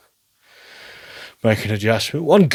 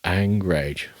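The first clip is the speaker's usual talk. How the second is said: low flat repeat; 4 semitones lower, 5 dB quieter than usual. Shown as a demonstration. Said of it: "I've not thought of angrage before".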